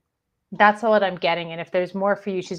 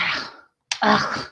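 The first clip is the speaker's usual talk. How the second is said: dismissive ugh; 2 semitones lower than usual. Retold or imitated. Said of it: "she's kinda dismissive of them".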